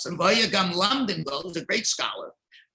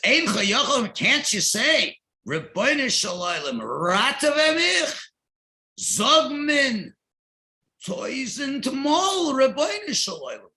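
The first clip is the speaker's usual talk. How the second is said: higher, louder scolding cry; scolding shout; 5 semitones higher, 3 dB louder, slower than usual. Retold or imitated. Rebbe scolds a student who has no words, with a raised, scolding voice. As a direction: scold him like a rebbe who won't accept excuses. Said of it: "Rab Nosson screamed at him, he scolded him".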